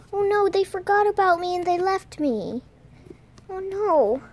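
pretend dismay. Pretend realising family left.

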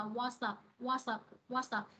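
"what's up" run together, s opening "up"; linked sounds. Shown as a demonstration. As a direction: link "what's up" into "what-sup", softly. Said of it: "chữ S này nó sẽ nối với chữ up". (nối chữ s sang "up" trong "what's up")

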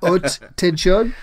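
"Haute Tension" drawn out slowly in a hammed-up French accent; 'Allo 'Allo French accent. Shown as a demonstration. Demonstrating his 'Allo 'Allo French accent for a co-host. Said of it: "I say them like I'm in an episode of Hello Hello".

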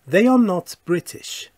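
a bold model sentence with "are" stressed; emphatic model sentence. Shown as a demonstration. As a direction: present "They are not British" firmly, stressing "are". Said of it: "full form set against contraction".

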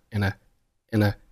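"n" joined to a following "a", like "nuh"; a quick, unstressed "n" gliding into a schwa; linked weak form. Shown as a demonstration. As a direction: run reduced "and a" together as "n-a". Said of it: "n和a就发生辅元连读".

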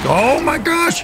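high-pitched shriek of surprise; astonished cry. Real, not acted. Gamer reacting to an elite fight, astonished. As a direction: let it shoot up high in disbelief.

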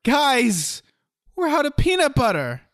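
high-pitched, over-dramatic announcement to the group; dramatic alarm. Shown as a demonstration. Showing an improv partner how delivery changes a line, dramatic high-pitched alarm. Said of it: "you can do it differently".

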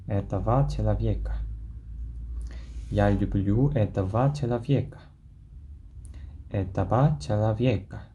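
each syllable of этого человека slow and clear; slow pronunciation drill. Shown as a demonstration. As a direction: drill it slowly for the class. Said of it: "한 번 더 발음해 볼게요".

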